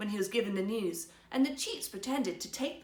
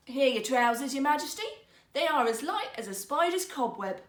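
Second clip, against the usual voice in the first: louder, higher, grand flourish; showman rogue; 4 semitones higher, 6 dB louder than usual. Acted. Rogue holding up empty hands to the emperor, grandly loud. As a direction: present nothing with pomp.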